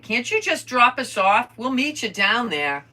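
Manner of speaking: put-on high, loud kid-like pestering; imitating pleading boys. Boys asking to be dropped off, imitated pleading. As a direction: push it out high and loud, wheedling.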